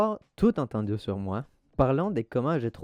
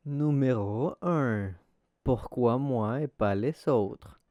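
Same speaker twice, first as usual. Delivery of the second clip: slow, drawn-out title read; measured countdown-style heading; section title announcement; slower than usual. Real, not acted. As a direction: announce the heading slowly, stretching the words.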